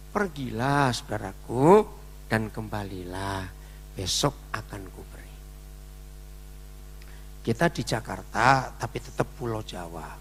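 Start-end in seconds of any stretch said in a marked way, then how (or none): 0.1-5.4 gentle brush-off. Shown as a demonstration. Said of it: "kalau ngusir orang itu pasti halus".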